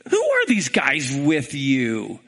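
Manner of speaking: low, slow voice of God; God questioning. Acted. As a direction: ask it low and slowly, as God. God questioning Balaam in story.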